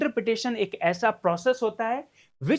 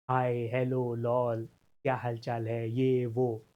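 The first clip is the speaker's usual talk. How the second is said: low, monotone rattle of chat messages; offhand chat listing; 9 semitones lower, 4 dB quieter, slower than usual. Retold or imitated. Teacher mimicking idle WhatsApp small talk, offhand. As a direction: reel them off casually, low and softer.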